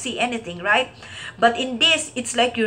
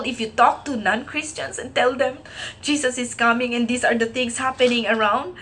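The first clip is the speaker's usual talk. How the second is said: usual speaking voice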